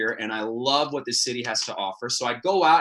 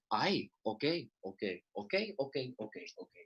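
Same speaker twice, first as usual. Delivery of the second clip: softer and softer resigned mutter; grandma giving in; 3 semitones lower, 13 dB quieter, much slower than usual. Retold or imitated. Grandma gives up on grandson, fading. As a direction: trail away as she backs out of the room.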